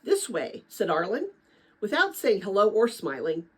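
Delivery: steady read-aloud storytelling voice; reading a novel aloud to former students; story narration. Acted. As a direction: read the chapter to the kids like a teacher.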